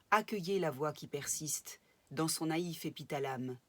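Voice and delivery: measured, articulate poetry reading with pauses between verses; deliberate, projected verse reading; poem recitation. Acted. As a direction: recite it line by line, letting each verse fall.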